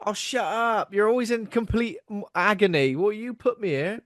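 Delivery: high whiny complaint from inside the crystal; moaning trapped soul. Acted. Trapped soul whining at its captor, high and complaining. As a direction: whine like a tortured soul stuck forever.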